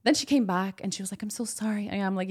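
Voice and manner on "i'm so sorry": softly imitated apology; meek apology. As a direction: mimic her backing down quietly. Retold apology from the rude visitor.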